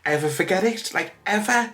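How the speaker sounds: real tearful rise, fighting to get the words out; choked up. Real, not acted. Thanking online friends through real tears, voice climbing high. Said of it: "if my volume was going up there".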